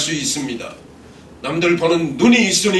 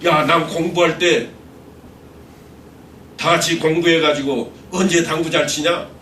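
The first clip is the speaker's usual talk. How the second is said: raised voice, imitating a friend's indignant comeback; retold loud retort; 3 semitones higher than usual. Friend answering a question about billiards, retold shout. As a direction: act out a friend calling back loudly. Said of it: "큰 소리로 이렇게 외쳤습니다".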